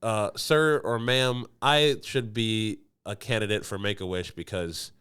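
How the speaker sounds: slow, formal pleading; mock plea. Applying to Make-A-Wish, a slow mock formal plea. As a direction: beg slowly and politely. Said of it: "I'd be like".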